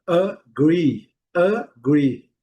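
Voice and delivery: "agree" with a weak uh start; careful model "agree" starting on schwa; schwa first vowel. Shown as a demonstration. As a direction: say "agree" with the A reduced to a short uh, GREE stressed. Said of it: "a melhor pronúncia é essa".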